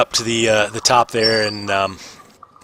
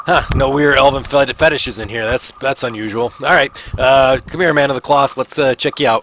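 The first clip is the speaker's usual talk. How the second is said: lightly voiced guard; 4 semitones higher, 5 dB louder than usual.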